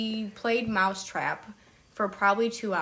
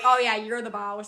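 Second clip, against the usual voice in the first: playing along in a country accent, a bit louder; 5 dB louder than usual. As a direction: answer in a light country twang with a laugh. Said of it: "walk around and talk in a country accent".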